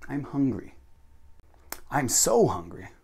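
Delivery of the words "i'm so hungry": so drawn out slowly; stress on so. Shown as a demonstration. Teacher shows increasing emphasis, stressing "so". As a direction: lean on "so" and stretch it. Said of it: "increase how emphatic your sentences are".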